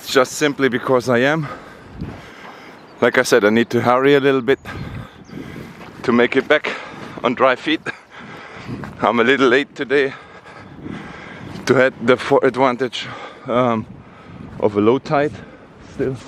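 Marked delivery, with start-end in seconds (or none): 3.0-14.8 breathless, hurried talk; panting a little between words; out of breath. Real, not acted. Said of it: "if I sound out of breath".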